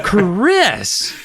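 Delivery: high, loud laughing shout; mother's shout. A narrator's reading. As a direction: scold her daughter, cracking up. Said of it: "Missus Powell shouted".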